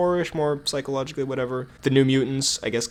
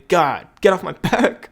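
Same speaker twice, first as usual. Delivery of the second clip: louder, higher, drawn-out mock annoyance; mock exasperation; 4 semitones higher, 4 dB louder, slower than usual. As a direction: jokingly tell them to back off. Jokingly defends having to leave.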